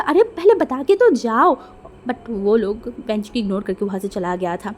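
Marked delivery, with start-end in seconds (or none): 0.0-1.6 calling after. A narrator's reading. Calling after departing friends.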